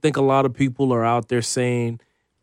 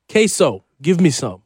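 excited; 4 semitones higher, 5 dB louder than usual. Pretend. Echoes queso craving.

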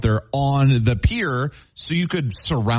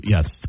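bat impression; 4 semitones lower than usual. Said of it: "Is that your bat impression?".

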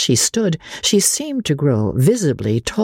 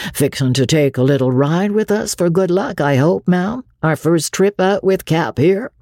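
soft-spoken courtesy; 4 semitones higher than usual. Acted. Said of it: "soft-spoken, courteous".

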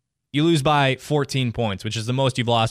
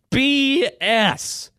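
B S pitched much higher, drawn out; emphatic high pitch; 11 semitones higher than usual. Shown as a demonstration. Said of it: "I would say the word if I could".

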